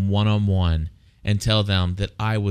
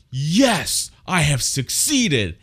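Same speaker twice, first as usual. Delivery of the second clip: higher, gloating self-congratulation; mock triumph; 6 semitones higher, much slower than usual. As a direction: crow over the victory, hammed-up. Dad gloating after yelling at kids.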